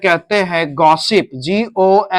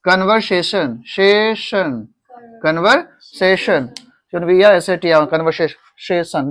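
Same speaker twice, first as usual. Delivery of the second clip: slow drill; 4 dB quieter, much slower than usual. Shown as a demonstration. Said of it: "slow pronunciation drill".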